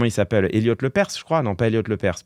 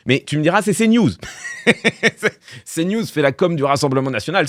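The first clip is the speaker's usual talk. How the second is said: ordinary delivery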